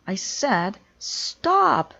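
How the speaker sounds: slow, loud furious shout; angry repeat. Acted. Conductor as the drum keeps rolling, slow furious shout. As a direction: hammer each word in anger.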